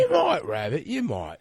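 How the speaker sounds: lightly voiced Irish accent; a hint of a bad Irish brogue. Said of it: "It's an Irish accent".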